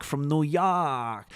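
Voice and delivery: slow, stretched New York "York"; New York accent. Acted. Streamer reading a New Yorker's message, drawn-out New York accent. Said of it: "I'm a Jordanian from New York".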